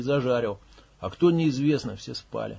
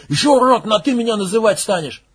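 higher, louder, indignant; furious yell; 7 semitones higher, 8 dB louder than usual. Acted. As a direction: rage at the insult. Max continues raging.

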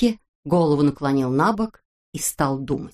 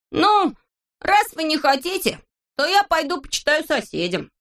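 put-on much higher, proud kid voice; boastful Neznaika; 9 semitones higher than usual. A narrator's reading. Neznaika boasts to his friends in a high voice. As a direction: show off the new poems.

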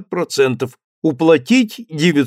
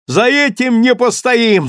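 high, louder burst of eagerness; eager exclamation; 9 semitones higher, 5 dB louder than usual. A narrator's reading. Merchant promising bribes to the official, eager cry. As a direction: shout your agreement at once. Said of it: "вскричал Ракитин".

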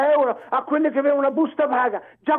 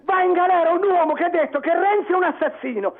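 heated, insistent tirade; angry rant; 3 semitones higher than usual. Real, not acted. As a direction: push each accusation out forcefully. Caller defends his accusation angrily.

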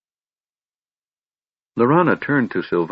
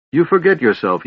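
raised voice, higher and louder; stern rebuke; 8 semitones higher, 5 dB louder than usual. A narrator's reading. Father towers over Laurana, stern rebuke. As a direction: reprimand with indignant authority.

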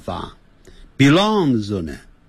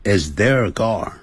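慢速再示范; slower than usual. Shown as a demonstration. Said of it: "那是他们的车子".

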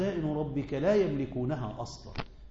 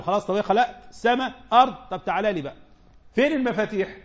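raised, louder mocking challenge; 4 semitones higher, 4 dB louder than usual. Preacher voicing God's challenge to deniers, mocking. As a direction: taunt him, demanding the keys. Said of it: "بعد قال له".

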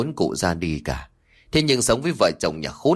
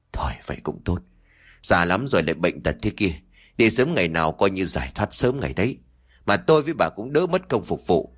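sighing; 3 semitones lower than usual. Acted. Husband shrugs off mother's death, sighing. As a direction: let it out with a weary sigh. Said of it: "buông ra một câu thở dài".

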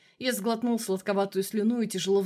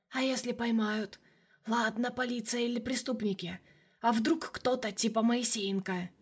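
quiet inner shadow; 2 semitones higher, 4 dB quieter than usual. Acted. The shadow voiced as a figure.

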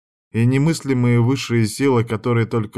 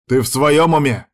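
higher, louder outraged retort; barked; 5 semitones higher, 5 dB louder than usual. Acted. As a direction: bark back at his friend. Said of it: "гаркнул Дамиан".

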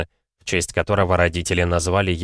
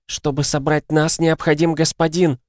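put-on high, insistent drunk mother; loud, slurring; 8 semitones higher than usual. A narrator's reading. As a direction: cut in loudly, dragging the words. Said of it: "громким, да нечленораздельности голосом". (громко, почти нечленораздельно)

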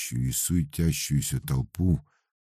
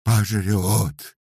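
loud, slow ecstatic cry; prophesy doom while crossing himself; shouting; 10 semitones higher, 5 dB louder, slower than usual. A narrator's reading. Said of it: "закричал Дуралом".

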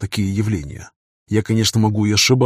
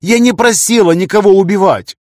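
put-on girl screaming at the man she wanted; 10 semitones higher, 7 dB louder than usual. A narrator's reading. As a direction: scream it out of hurt love. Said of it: "закричала Лия".

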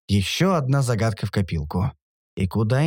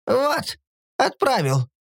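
whiny voice; 9 semitones higher, slower than usual. Acted. Lanzi's voice.

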